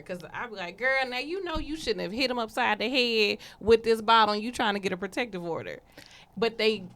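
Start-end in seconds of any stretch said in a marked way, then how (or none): 0.8-5.8 put-on lightly done casual girl-talk; chatting easy with a client, a hint of scolding. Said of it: "I talk regular".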